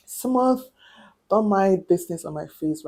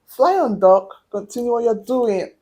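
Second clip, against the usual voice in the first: raised, louder acted bravado; breezy go-ahead; 3 semitones higher, 5 dB louder than usual. Patient telling the doctor to carry on, breezy go-ahead. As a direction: wave the doctor on boldly.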